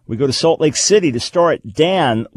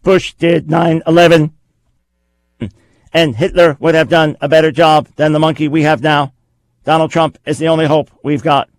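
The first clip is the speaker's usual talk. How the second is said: lightly voiced robot, a touch louder; 3 semitones higher, 4 dB louder than usual. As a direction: read it like a stiff machine. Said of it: "I'll give you my best robot voice here".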